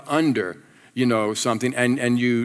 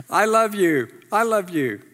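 sincere; 5 semitones higher than usual. Shown as a demonstration. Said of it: "say, I love you".

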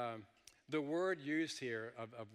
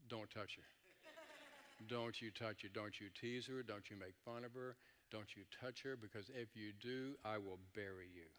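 softer voice, a measured threat; quiet warning; 2 semitones lower, 6 dB quieter than usual. Acted. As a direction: warn the workers off, understated but serious. Boaz warns his workers off Ruth.

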